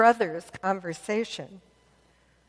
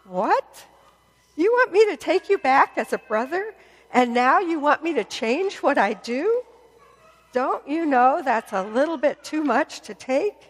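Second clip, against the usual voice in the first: indignant; 2 semitones higher than usual. Acted. Older brother protesting to his younger brother, indignant. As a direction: bristle at the cheek of it.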